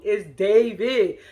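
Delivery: slow, stretched-out name, imitating excitement; mock excited insistence. Kenya insisting to her friend who it is, mock excited. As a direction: draw out the name like a gushing fan. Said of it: "Kenya's so damn excited".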